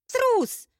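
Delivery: very high, loud indignant cry; indignant outburst. Acted. Bride outraged at her fainting groom, shrill-pitched indignant cry. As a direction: hurl it after him in outrage. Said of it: "возмутилась Эль".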